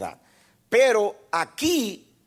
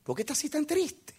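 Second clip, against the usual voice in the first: hushed divine voice; 7 semitones higher, 8 dB quieter than usual. Retold or imitated. God's voice in retold vision.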